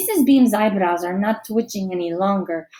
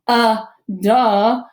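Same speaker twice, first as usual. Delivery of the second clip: mock sneer; 5 dB louder than usual. A narrator's reading. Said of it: "Dylan sneers".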